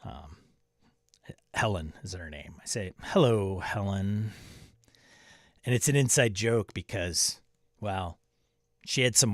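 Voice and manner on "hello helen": lightly imitated sitcom-style hello; drawn-out sitcom greeting. Shown as a demonstration. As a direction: stretch the greeting a little, mock-ominous. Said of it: "I talk to her like that".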